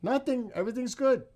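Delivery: high, loud cover-up; suppressed laughter. Real, not acted. Covers up after laughing fit.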